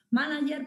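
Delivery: "Manager" with the stress on the first A. Shown as a demonstration. Lecturer showing how the dictionary teaches pronunciation, "Manager" stressed on first A. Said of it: "la tilde en la A".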